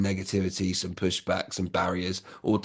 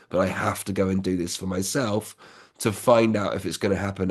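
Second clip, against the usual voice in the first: sincere heart-to-heart. Shown as a demonstration. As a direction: calmly ask them to understand you. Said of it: "it comes from the heart".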